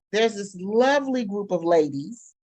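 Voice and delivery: mock-sweet, tongue-in-cheek praise; facetious. Real, not acted. Speaker describing the Florida book-ban group to the audience, facetiously. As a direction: say it with light, dry irony. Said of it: "and I say that facetiously".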